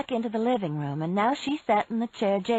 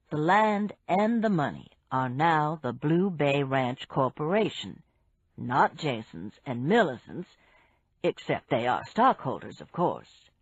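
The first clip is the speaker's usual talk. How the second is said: lightly voiced man; 4 semitones lower than usual. Barry voiced by narrator.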